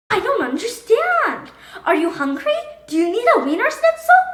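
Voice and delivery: put-on a mother fretting over her silent boy; fussing mom, rising worry; worried mother. Mother keeps guessing, frantic.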